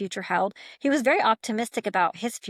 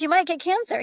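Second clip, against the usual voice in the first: higher, louder, laughing as she voices him; mock worried warning; 8 semitones higher, 4 dB louder than usual. Sister voicing brother warning a smoker, amused. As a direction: lightly play the brother's blunt worry.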